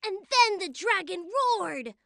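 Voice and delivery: talking through a mouthful; mouth full. Real, not acted. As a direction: say it around a bite of food. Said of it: "don't talk with your mouth full".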